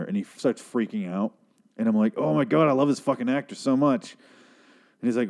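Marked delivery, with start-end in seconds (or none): 2.2-4.2 higher-pitched, delighted gush; gushing fan excitement. Retold or imitated. Viewer reacting to a favourite actor's scene, excited gushing. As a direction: gush with admiration.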